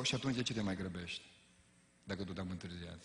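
quiet retort. Retold or imitated. Pastor answering the rushing driver, quiet dry retort. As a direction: drop it low and deadpan.

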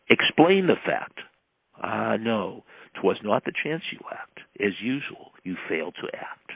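declaimed poem with stressed openings and falling line ends; poem recitation. Acted. Salesman's morning poem to himself, declaimed in measured recitation. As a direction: recite it line by line, with deliberate pauses.

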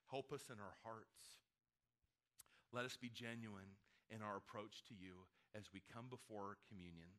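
earnest spoken prayer, measured and fading. Real, not acted. Pastor praying before communion, earnest and hushed.

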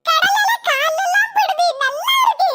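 put-on delighted child.

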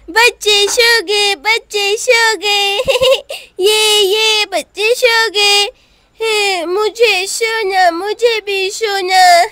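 put-on slow babyish giggly talk; a little boy, pleased, now sleepy himself; sleepy toddler. (नींद भरी तोतली आवाज़)

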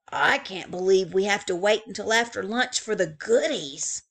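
a touch of a whisper. Acted. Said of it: "Bear whispered back".

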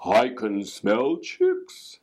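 slow creepy whisper; slow whispered fox voice; sinister whisper. A narrator's reading. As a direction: whisper it hungrily, slowly. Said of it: "said a voice".

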